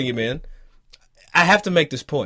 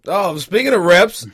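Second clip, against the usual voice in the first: louder, higher restart; 4 semitones higher, 6 dB louder than usual. Acted. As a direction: raise the voice to take the floor, higher. Repeats phrase to grab the floor.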